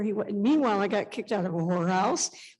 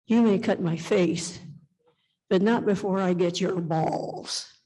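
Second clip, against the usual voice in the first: calm; 2 semitones lower, slower than usual. Retold or imitated. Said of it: "And Lee said so calmly".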